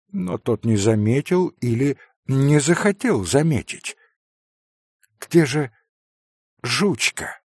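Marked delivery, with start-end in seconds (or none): 5.2-7.4 put-on a touch of a sick boy's cracked voice; lightly voiced weak boy; strained little voice. A narrator's reading. Sick boy asks his friend about his dog, faintly strained. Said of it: "надорванным голоском спросил Илюша".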